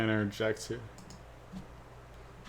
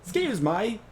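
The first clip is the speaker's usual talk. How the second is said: higher-pitched character take; 9 semitones higher, 3 dB louder than usual. Shown as a demonstration. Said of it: "he's way higher than that".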